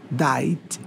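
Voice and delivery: "Diet" said the English way, softly; English pronunciation demo. Shown as a demonstration. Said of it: "Isso aqui é mais ou menos o que se fala". (pronúncia inglesa de "Diet", em voz baixa)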